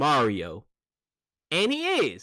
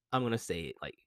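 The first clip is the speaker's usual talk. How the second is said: softer whispered confession; 8 semitones lower, 9 dB quieter, faster than usual. Real, not acted. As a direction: whisper it like a secret. Confessing an unpopular opinion.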